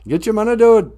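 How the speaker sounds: catchphrase yell. Acted. Opening the show with his catchphrase, hyped yell. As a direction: belt the catchphrase out like a hype man.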